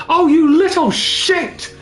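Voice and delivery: high, drawn-out mock outburst; imitated angry yell. Friend retells French correspondent yelling at a kid, mock outraged. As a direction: act out an exasperated yell. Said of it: "he just yells out".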